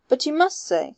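an angry gentleman demanding an answer. A narrator's reading. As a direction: snap it out in anger. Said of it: "said Mallow angrily".

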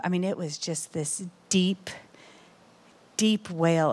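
barely voiced, leaning in close; hushed whisper. Real, not acted. Speaker to congregation, recalling her crying, whispered. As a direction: drop to a breathy whisper.

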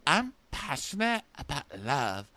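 mock-earnest, climbing to high squeal; imitated mom. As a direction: build a parody confession to a loud squeak. Parody of mom's confession, building.

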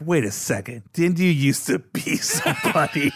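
lightly voiced kid, half-laughing; recognizing kid. Kid recognizes the fallen clown, slow and wondering.

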